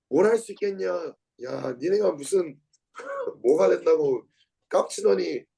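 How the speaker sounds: imitating a scoffer's taunts; mock jeering. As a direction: jeer lightly, dragging out some of the words. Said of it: "막 욕을 하고 막 비웃고". (비아냥거리며 조롱하는 흉내)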